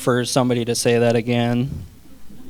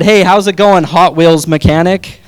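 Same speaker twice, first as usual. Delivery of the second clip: mock cheery greeting; 3 semitones higher, 5 dB louder than usual. Student greets teacher with insult.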